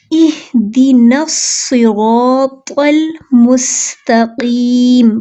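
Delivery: very slow melodic tajweed recitation; Quran recitation. Shown as a demonstration. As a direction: draw it out as tilawat. Recites verse. (धीमी तिलावत)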